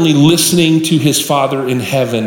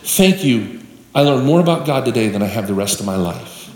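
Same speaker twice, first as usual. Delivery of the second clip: tearful thanks; 4 semitones lower, 3 dB quieter than usual. Retold or imitated. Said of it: "He has tears in his eyes".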